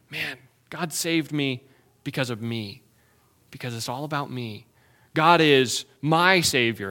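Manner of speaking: leaning on "me" in "because of me" and "it's all about me"; misplaced emphasis. Shown as a demonstration. Pastor voicing prideful hearts, stressing "me". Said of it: "we put the emphasis on the wrong words".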